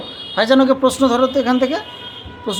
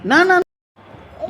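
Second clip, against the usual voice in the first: drawn-out loud no; 9 semitones higher, 4 dB louder, much slower than usual. Real, not acted. Stopping child's rough play.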